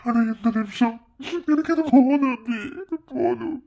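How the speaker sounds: crying as he begs forgiveness, pitch climbing; tearful pleading. Acted. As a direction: plead through sobs, pausing for breath. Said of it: "அழாத, சத்யன்". (அழுதுகொண்டே மன்னிப்பு கேட்கும் குரல்)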